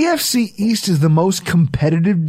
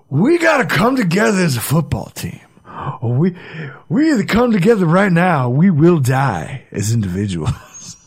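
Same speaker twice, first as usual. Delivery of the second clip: Pacino pep talk. Retold or imitated. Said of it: "Al Pacino sauntering through the door, giving a speech".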